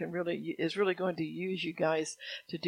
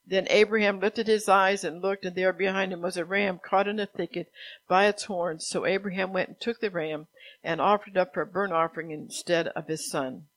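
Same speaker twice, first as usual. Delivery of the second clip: projected, even read-aloud; scripture reading; 5 dB louder than usual. A narrator's reading. Preacher reads Abraham's story from Genesis, scripture reading. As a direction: read the Bible story out to a congregation.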